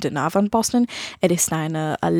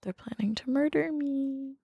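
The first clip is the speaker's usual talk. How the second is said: conspiratorial whisper; 6 semitones higher, 10 dB quieter than usual. Pretend. Mock conspiratorial joke.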